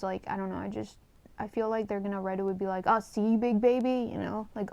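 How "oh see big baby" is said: louder, teasing mock jeer; imitating coworkers making fun of her. Imagined guys mocking her for showing emotion, mock jeer.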